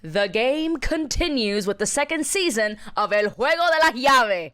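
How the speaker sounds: upbeat co-host sponsor plug; lively promo read; scripted podcast ad read. Acted. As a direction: sell the show with polished enthusiasm. Sponsor ad read by both hosts.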